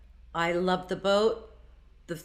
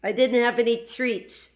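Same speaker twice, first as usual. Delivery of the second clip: the family's funny little voice, lightly put on; playful mock-whiny in-joke voice; 3 semitones higher than usual. Admitting to going hungry, in a funny family voice. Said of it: "gotta stop talking like that".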